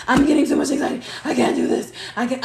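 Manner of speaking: acted mild panic, voice straining; hammed-up anxious refusal; anxious overwhelm. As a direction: plead that it is all too much. Acts out anxious refusal, escalating.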